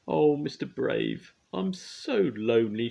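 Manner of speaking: high, slow, wailing plea; a lonely girl crying for company; sobbing. A narrator's reading. Lonely girl sobbing to Mister Brave, high and slow. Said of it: "she sobbed".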